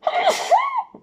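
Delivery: loud high sneeze; a sudden real sneeze; sneezing. Real, not acted. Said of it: "Attention, je vais éternuer". (éternuement sonore)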